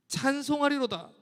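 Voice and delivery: firm and full, a declared resolve. Acted. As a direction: proclaim it with conviction. Repeated psalm refrain, then firm.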